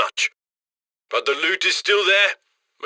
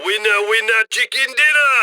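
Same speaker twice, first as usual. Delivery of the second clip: triumphant cheer; 2 semitones higher than usual. Acted. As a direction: celebrate the win like a jackpot. Handler celebrating finished job.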